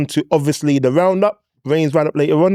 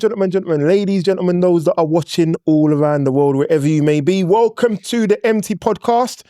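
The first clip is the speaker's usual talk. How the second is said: show host intro. Acted. Host opens podcast.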